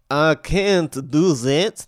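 slow, hammed-up Spanish accent; mock Spanish matador, very slow. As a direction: put on a drawn-out Spanish accent. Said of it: "That's my Spanish accent".

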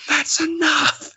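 high, slow mock shout of a general; high retold yell calling everyone off; imitating a scream. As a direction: bark the order up high to stop the firing. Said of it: "starts screaming".

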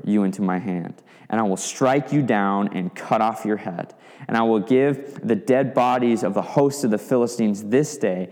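reading David's defiant speech with force; preacher voicing David's challenge to Goliath; declaimed scripture speech. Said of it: "look at the full speech from David".

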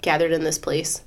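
froggy voice. Real, not acted. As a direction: let the voice go froggy and rough. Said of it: "that froggy sound".

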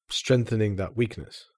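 normal talking voice

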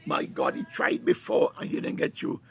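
fervent, driving sermon delivery; impassioned preacher rallying the congregation; full-force preaching. Real, not acted. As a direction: preach it with rising urgency and punched key words.

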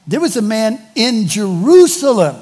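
lifted, wondering Scripture reading; delighted surprise. Shown as a demonstration. Preacher reading Simeon's story as it was meant, delighted surprise. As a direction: announce it with surprise and pleasure. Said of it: "reading it as it was meant to be".

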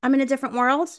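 mock the hero's unbothered shrug; mocking aloof. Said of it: "He was like".

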